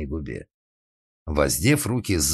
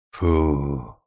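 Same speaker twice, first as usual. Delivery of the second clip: relieved exhale; 3 semitones lower than usual. A narrator's reading. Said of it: "выдохнул Карло".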